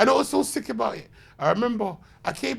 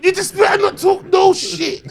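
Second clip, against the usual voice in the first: louder, higher warning to himself; raised, urgent self-warning; shouted inner warning; 10 semitones higher, 7 dB louder than usual. Retold or imitated. Stronger repeat of the warning.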